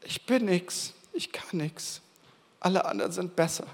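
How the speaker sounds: soft, dejected, mostly whispered; a hushed voice of inferiority; self-doubting whisper. Retold or imitated. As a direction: murmur your inner doubts to yourself. Wenn du wieder mal denkst.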